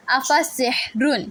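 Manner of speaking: افا سحرن drawn out, every sound clear; slow recitation. Shown as a demonstration. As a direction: spell out افا سحرن slowly. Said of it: "دو پیش کی تنوین".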